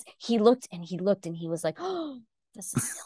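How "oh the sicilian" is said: quiet murmur under the breath. Retelling what a young chess opponent said: imitating muttering under the breath. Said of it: "He literally said that under his breath".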